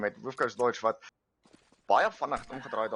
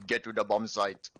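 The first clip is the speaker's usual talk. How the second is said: mock Arnold accent; 2 semitones lower than usual. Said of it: "Arnold would be ... probably something more like".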